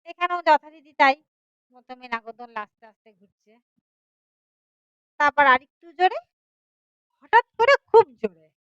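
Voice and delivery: lively, dramatic storytelling voice; story narration. A narrator's reading. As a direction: tell the tale with rising and falling suspense. (নাটকীয় ভঙ্গিতে গল্প বলা)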